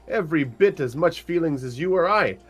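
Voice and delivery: a small halfling jumping in to defend his friend; eager wee halfling. Acted. Player voices halfling arguing with mother.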